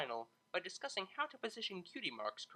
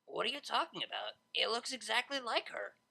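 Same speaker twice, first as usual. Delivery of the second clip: incredulous protest; 7 semitones higher than usual. Acted. Vinyl protests her drawing.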